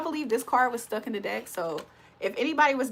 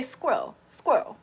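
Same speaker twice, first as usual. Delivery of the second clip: squirrel squeezed into "skwell", mock UK; UK accent squirrel. Showing how UK people say it, imitated accent. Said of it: "Have y'all ever heard a person".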